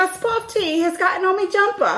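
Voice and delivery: posh British fuss about the jumper; mock British accent. Hosts riffing on a UK fan, mock British accent.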